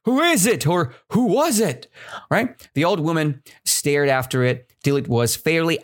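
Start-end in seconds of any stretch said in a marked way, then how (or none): 0.0-1.9 acted shock, climbing higher. Shown as a demonstration. Teacher showing how the old woman stared, shocked. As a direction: ask it in rising disbelief. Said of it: "in a shocking way".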